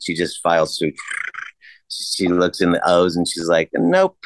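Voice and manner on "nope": high-pitched mock older-woman refusal; imitating older woman. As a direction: pitch it up as the ticket lady. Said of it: "African-American older woman that's sitting there".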